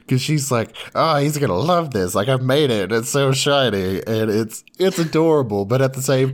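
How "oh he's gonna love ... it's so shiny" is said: lightly acted pleased gushing, higher pitched; mild mock delight. Girl showing off the mud ball she made, mock delight. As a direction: gush proudly, playing her pride up a little.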